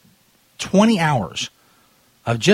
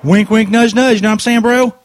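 higher, louder sly nudging; mock conspiratorial; 7 semitones higher, 5 dB louder than usual. Prank caller winking at the drive-thru clerk, hammed-up sly. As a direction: sell it like a shady back-room deal.

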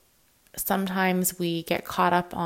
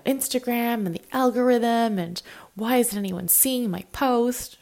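whispered grumble, higher; mock whisper; 5 semitones higher than usual. Grumbling in a whisper about the algorithm hiding her post. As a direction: hush the complaint like a secret gripe. Complaining she can't control.

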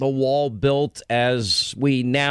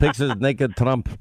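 put-on Russian accent. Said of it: "I like your Russian accent".

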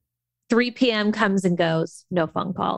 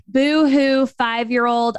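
mock whining; slower than usual. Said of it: "Old me would have been victim".

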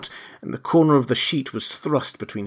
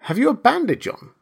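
bewildered question; 12 semitones higher than usual. A narrator's reading.

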